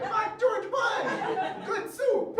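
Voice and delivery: high, loud mock-defiant yell; comic outburst at full voice; outraged shout. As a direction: shout it out like a rebel at a rally. Child self suddenly renouncing country.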